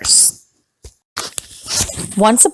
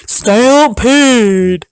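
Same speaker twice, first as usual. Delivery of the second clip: yell; 3 semitones higher than usual. Acted. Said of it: "The cowboys yelled".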